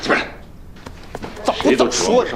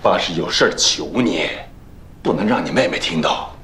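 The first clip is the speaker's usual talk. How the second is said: 低声哄骗; 6 semitones lower, slower than usual. Acted. 爸爸压低声音哄骗儿子.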